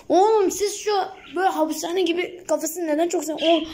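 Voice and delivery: indignant outburst. Real, not acted.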